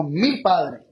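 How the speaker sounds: "mi Padre" with "mi" leaned on, falling; stress on mi. Shown as a demonstration. Preacher contrasting the Father with my Father, stressing mi. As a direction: press the word "mi" before "Padre". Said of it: "No solamente el Padre, sino".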